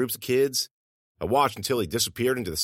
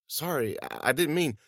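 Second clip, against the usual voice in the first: startled apology; 4 semitones higher, 5 dB quieter than usual. Acted. And he flinched.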